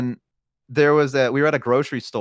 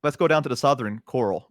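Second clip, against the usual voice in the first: easy, quicker Southern delivery; native Southern accent. Shown as a demonstration. Showing the friend how, natural Southern accent. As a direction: say it like a local Southerner. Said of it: "Okay, you say it".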